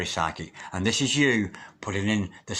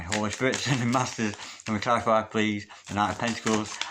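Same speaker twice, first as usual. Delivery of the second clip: murmured invocation. Acted. Calls on spirit, laughing.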